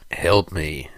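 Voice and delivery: put-on mildly faltering old man's plea; lightly voiced, faltering old monk; stammering old man. A narrator's reading. Disguised Sarek answers the young acolyte, lightly stammering. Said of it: "stammered Sarek".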